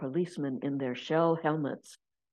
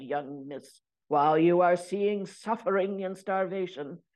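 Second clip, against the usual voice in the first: stern shopkeeper. Acted. Shopkeeper scolding young woman.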